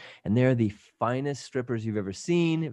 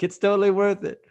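high and laughing through the words; laughing it off after being thrown out; laughing, unrepentant; 9 semitones higher, 4 dB louder than usual. Retold or imitated. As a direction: grin it out, no regret. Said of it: "I'm like".

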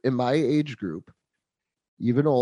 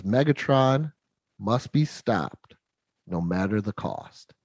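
slow, deliberate heroic vow; solemn hero quote; 3 semitones lower, slower than usual. Retold or imitated. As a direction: recite it slowly, falling away at the end.

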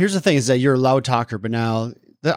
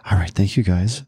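formal presenter voice; 4 semitones lower than usual. Pretend. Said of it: "imagine ... read it in front".

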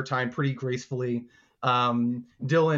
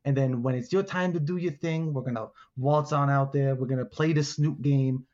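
lightly voiced scheming alligator; a hint of a tough-talking gator striking a deal; alligator wheeler-dealer. Alligator lays out his side of the plan, lightly voiced scheming.

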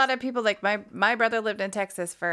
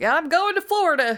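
higher, louder mock voice of Aaron; imitating Aaron in the video; 8 semitones higher, 6 dB louder than usual. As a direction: parody the video clip, hammed up. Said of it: "a video posted on their thing".

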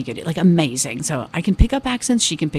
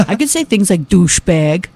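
louder put-on American accent; 5 dB louder than usual. Shown as a demonstration. Comedian demonstrating American slang to host in American accent. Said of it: "I could talk like this".

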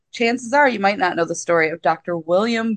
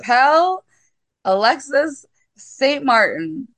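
put-on reluctant French accent; 5 semitones higher than usual. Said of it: "I'm not doing a French accent".

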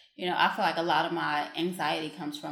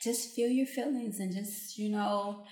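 calm voice; 3 semitones higher, 5 dB louder than usual. Retold or imitated. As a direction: soothe them gently, like a meditation guide. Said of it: "And it's in calm voice".

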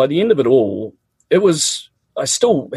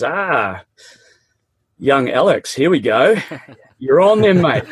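teacher's challenge; 3 semitones higher than usual. Retold or imitated. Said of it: "he says".

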